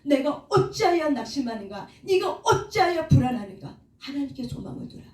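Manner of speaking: lightly dramatized psalm cry; addressing one's soul. Acted. Psalmist questioning his own soul, lightly dramatized appeal. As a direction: put some force into the self-questioning, drawing out the opening call. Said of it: "자기 자신에 대해서 이렇게 얘기한다는 거죠".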